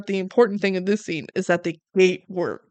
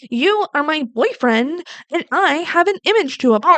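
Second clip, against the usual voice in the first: put-on mean girl quote; 6 semitones higher than usual. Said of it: "she goes".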